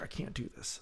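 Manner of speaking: whispery little mock whine; retold child's hushed protest; imitated seven-year-old. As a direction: give up in a tiny, breath-only child voice. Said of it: "She's seven".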